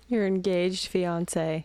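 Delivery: slow, drawn-out teasing echo; teasing repeat. Real, not acted. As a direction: savor the words mockingly. Wife teasingly repeats husband's phrase.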